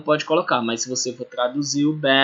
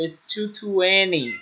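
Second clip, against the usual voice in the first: slow example; 2 semitones higher, 4 dB quieter, slower than usual. Shown as a demonstration. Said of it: "Por exemplo".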